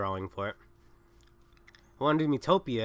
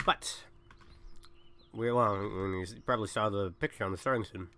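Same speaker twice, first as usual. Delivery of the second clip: talking around a cough drop; mouth full. Real, not acted. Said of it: "I got a cough drop in my mouth".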